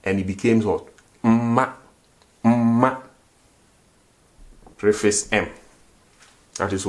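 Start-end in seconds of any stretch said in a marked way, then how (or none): 1.2-3.0 Mma with a long doubled m; Mma, hold the m before ma; say the negative form. Shown as a demonstration. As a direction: Twi word Mma said clearly. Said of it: "I only preface it with what? M".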